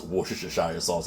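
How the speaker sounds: "Worcestershire" muddled as wooster-sher-shire; struggling pronunciation. Real, not acted. Cook admits the sauce name defeats them, struggling pronunciation. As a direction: stumble through "Worcestershire" with extra syllables. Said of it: "I cannot pronounce".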